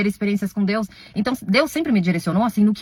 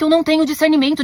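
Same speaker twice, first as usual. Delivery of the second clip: mock-apologetic, pitched up high; sarcastic admission; 6 semitones higher than usual. Shown as a demonstration. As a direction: throw the accusation back sarcastically. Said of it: "desculpa por isso".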